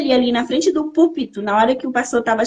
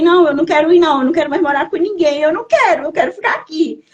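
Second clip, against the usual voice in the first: raised, insistent refusal; retold protest; 3 semitones higher, faster than usual. Young woman refusing to live with another family, protesting. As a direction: push back in a higher, pleading protest.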